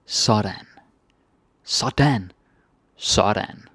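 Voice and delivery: "Sådan" tried with rising and falling tunes; varied intonations of Sådan. Shown as a demonstration. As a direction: show how many ways "Sådan" can sound. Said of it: "So many different intonations".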